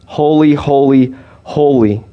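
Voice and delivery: each holy on a falling tune, the first holy loudest; threefold holy. Shown as a demonstration. Preacher stressing God's holiness to the congregation with solemn emphasis. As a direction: build solemn weight on holy, holy, holy. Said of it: "infinitely holy".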